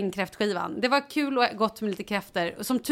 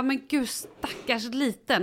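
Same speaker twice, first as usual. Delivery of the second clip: slow, higher-pitched pitying coo; retold sympathy; 4 semitones higher, slower than usual. Mother retells pitying her vomiting baby, cooing sympathy. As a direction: draw it out with a mother's pity.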